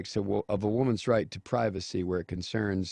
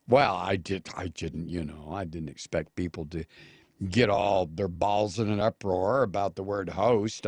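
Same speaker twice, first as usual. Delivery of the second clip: mock excuse; 2 semitones lower than usual. Host imitates the senator's excuse, mock defensive. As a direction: stammer a put-on excuse, then grumble it out.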